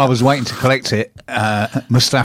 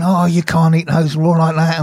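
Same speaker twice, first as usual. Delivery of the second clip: drawn-out, higher-pitched mock warning; imitated amazement; 4 semitones higher than usual. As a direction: slowly retell the onlookers' disbelief. Acting out onlookers' warning in story.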